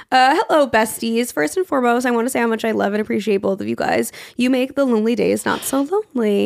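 hoarse, raspy reading voice. Real, not acted. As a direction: read it with a raspy voice. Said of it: "my raspy, sexy voice".

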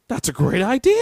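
loud, high, over-the-top approval; mock enthusiasm. Executive hearing the Skittles RPG pitch, mock enthusiasm. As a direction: shout it like the pitch just thrilled you. Acted reaction to absurd game pitch.

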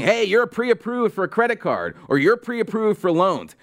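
a hint of peppy telemarketer; mock robocall pitch. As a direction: imitate an annoying robocall, lightly voiced. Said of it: "those annoying robocalls that you get".

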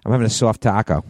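lightly put-on Boston accent; playful Boston vowels. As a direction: say soft taco with a Boston twang. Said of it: "say the word soft with the Boston accent".

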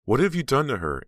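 high, loud horrified outcry; scream. A narrator's reading. Aunt Belle screams at James in horror, loud and high. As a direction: cry out in horror, high-pitched. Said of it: "Aunt Belle screamed".

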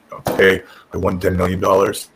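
low, utterly monotone deadpan; Tommy Dreamer. Retold or imitated. Boss reporting a huge win, super monotone. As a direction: imitate a man announcing great news with no excitement. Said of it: "That's his delivery for, for anything".

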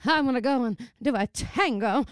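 rough attempt at a transatlantic accent; workshopped, posh-ish transatlantic. Shown as a demonstration. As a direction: try a little old-film transatlantic speech. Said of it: "I wish I could do the transatlantic accent".

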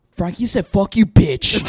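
high, loud earnest tattletale; serious little girl. Retold or imitated. Kindergartner tattling to coach, serious little-girl voice. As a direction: imitate a kid reporting dead seriously. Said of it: "the most serious look".

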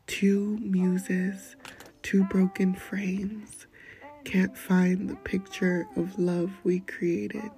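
slow, hushed spoken-word poem; poem reading. Acted. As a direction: read it like an intimate spoken-word piece. Reads her Spanglish poem aloud.

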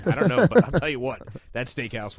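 loud, eager build-up to praise; excited. Real, not acted. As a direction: punch it out, all fired up. Emphatic lead-in to praise.

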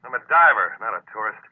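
indignant insistence; defiant. Acted. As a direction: throw it back with pride. Defiant reply to friend.

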